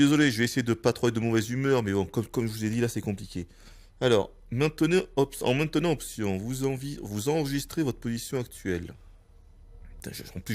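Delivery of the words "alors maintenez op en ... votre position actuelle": talking through a blocked nose; nose squashed by the VR headset. Real, not acted. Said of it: "je parle du nez". (nez bouché, voix nasillarde)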